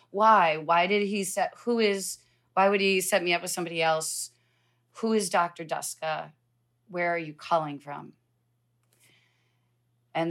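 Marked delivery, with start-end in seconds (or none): 0.1-8.1 louder, rushed, rising panic; alarmed questions. Retold or imitated. Patient grilling the cancer center caller, louder and alarmed.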